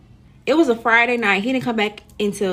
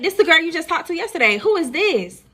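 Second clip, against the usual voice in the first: raised, challenging phone voice; confrontational call; 6 semitones higher than usual. Retold or imitated. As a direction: call out the other girl with raised pitch. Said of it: "I said".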